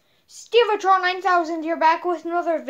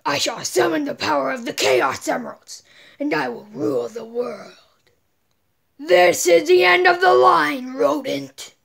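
lightly voiced mad scientist villain; gloating evil genius, lightly done; megalomaniac rant. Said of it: "Mad scientist".

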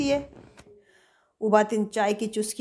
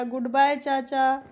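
slow, drawn-out reluctant goodbye; poor-thing farewell; 4 semitones higher, slower than usual. Acted. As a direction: stretch the goodbye out, mildly forlorn. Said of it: "कोको बोलता है फिर बेचारा". (बेचारगी से, धीरे-धीरे खींचकर)

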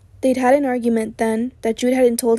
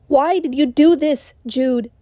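desperate angry question; 3 semitones higher, slower than usual. A narrator's reading. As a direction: hurl it at him in despair. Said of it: "he yells, desperately".

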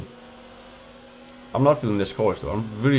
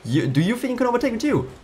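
much higher and louder, shouting; furious yell; 12 semitones higher, 7 dB louder than usual. Real, not acted. At the overtaking driver, a high furious yell. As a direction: scream at the car overtaking you. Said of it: "I'm getting pissed".

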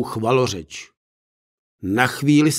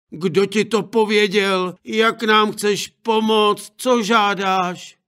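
higher, urgent then slower questions; worried parents pressing her; higher anxious voice; anxious parents questioning; 7 semitones higher, slower than usual. Acted.

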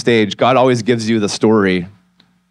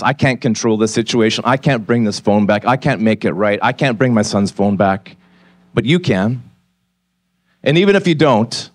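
a hushed plea to God; retold prayer. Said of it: "slowly the words started to come".

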